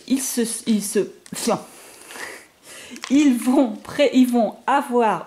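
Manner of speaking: stumbling over the words, restarting; bafouillage réel. Real, not acted. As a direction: trip up mid-sentence and start over. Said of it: "je bafouille". (elle bafouille et se reprend)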